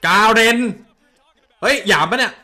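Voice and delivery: loud, high cry of disbelief; real startled outburst; shocked yell. Real, not acted. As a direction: shout as if the pick is an insult. Shocked by the Garen pick.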